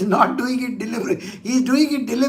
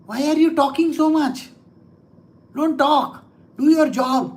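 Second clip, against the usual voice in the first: higher-pitched goading challenge; provoking; 5 semitones higher than usual. Acted. Lord daring the demon to fight, provoking. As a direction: needle the enemy into a fight. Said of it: "It is called provocation".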